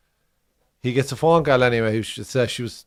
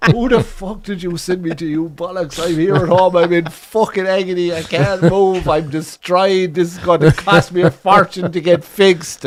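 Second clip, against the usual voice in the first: a hint of a furious woman, louder and higher; retold tirade; 5 semitones higher, 6 dB louder, slower than usual. Posh woman on the phone tearing into the bond setter, angry. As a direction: rant it like she's in agony and blaming him. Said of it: "absolutely bawled him from height".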